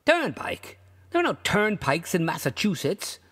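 Turnpike? leapt up high in disbelief; bewildered traveller; astonished echo. A narrator's reading. Rugg echoing the toll gatherer, astonished and high.

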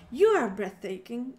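loud declaration. Shown as a demonstration. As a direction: proclaim it loudly, with a rising end. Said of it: "was it breathtaking?".

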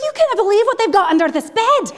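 giddy gran sharing a discovery; laughing Scottish grandma. Retold or imitated. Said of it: "She's like".

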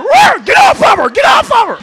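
loud, high barking dog voice. Retold or imitated. Comic mimicking a dog barking at a fight. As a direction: bark it out like a big dog.

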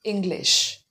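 "English" repeated with a clear sh at the end; "English" said alone, closing on a full sh; correct "sh" ending. Shown as a demonstration. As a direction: model "English" for learners, ending on sh. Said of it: "with a sh sound".

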